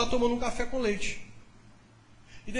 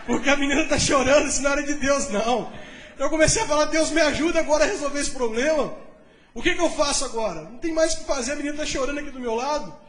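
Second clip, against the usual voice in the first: louder, higher, hurried comic panic; 4 semitones higher, 5 dB louder than usual. Retold or imitated. Pastor telling the church how he panicked when she cried, in comic alarm. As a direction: sell the panic for laughs.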